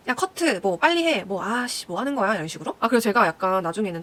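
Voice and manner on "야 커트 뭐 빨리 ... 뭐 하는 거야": mildly irritated mimic of cursing staff; 욕하는 스태프 흉내. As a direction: grumble orders like a cross crew member. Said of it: "욕하는 거 다 들렸던 거". (짜증 섞어 재촉하는 스태프 흉내)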